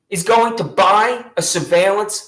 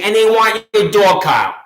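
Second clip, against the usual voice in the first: sudden shout on the key line; a real indignant shout; emphatic outburst; 5 dB louder than usual. Real, not acted. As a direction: burst out loud at the injustice. Outraged telling of the raid.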